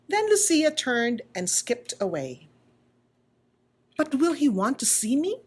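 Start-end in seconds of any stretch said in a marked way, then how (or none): 4.0-5.4 wondering aloud. Acted. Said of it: "Punchinello wondered".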